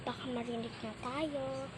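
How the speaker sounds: hushed and quick, hiding; whispering while hiding. Real, not acted. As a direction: keep your voice down so nobody hears. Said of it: "huwag tayo masyadong maingay".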